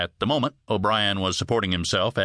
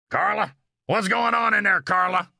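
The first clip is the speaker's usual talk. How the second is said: high, raised, insistent voice; demanding call; 9 semitones higher than usual. A narrator's reading. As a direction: demand an answer through the door. Husband shouts through the door.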